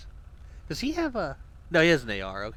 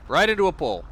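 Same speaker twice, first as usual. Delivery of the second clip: surprised; 8 semitones higher, 9 dB louder than usual. Real, not acted. Car crashes into pole.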